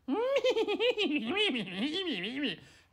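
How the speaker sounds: high, loud, crunchy cackle; crazy maniacal laugh. Acted. Fry laughs as fast and loud as possible, maniacal. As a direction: cackle long and shrilly like a crazed creature. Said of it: "crunchy sounding maniacal laugh".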